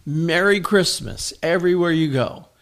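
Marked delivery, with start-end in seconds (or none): 0.0-1.3 slow, emphatic holiday declaration; bold declaration. Shown as a demonstration. Pastor showing believers what to declare everywhere, bold declaration. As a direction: declare it slowly and firmly. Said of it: "encourage you to declare".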